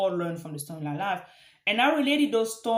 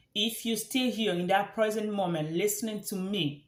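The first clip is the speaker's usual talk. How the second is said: "If you're still here" drawn out slowly, word by word; slow it right down so it sinks in. Shown as a demonstration. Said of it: "let me say that slowly".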